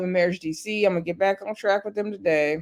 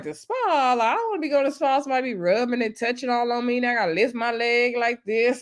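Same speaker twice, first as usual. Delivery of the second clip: mock protest; 3 semitones higher, faster than usual. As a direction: retell it as a playful protest. Acting out Princess balking at spa.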